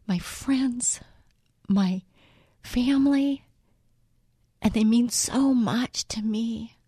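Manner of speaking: whispering through tears, voice catching; fighting back tears, barely voiced; real tears, breaking into a whisper; choked up. Real, not acted. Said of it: "and I'm choked up".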